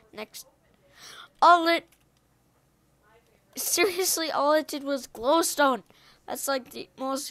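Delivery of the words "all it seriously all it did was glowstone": halting, stumbling words; stuttering. Real, not acted. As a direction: trip over the words. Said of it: "Sorry, guys, if I'm stuttering a little bit".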